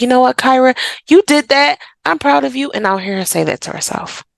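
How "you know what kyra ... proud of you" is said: proud praise. Retold or imitated. Mom telling Kyra she's proud, bright praise. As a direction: cheer her on like she won something. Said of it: "I'm like".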